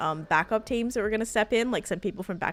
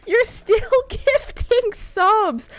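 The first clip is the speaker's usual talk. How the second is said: high, loud, laughing disbelief; overwhelmed laughing; 9 semitones higher, 5 dB louder than usual. Real, not acted. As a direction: laugh through the words, stunned. Stunned by gifts that keep coming.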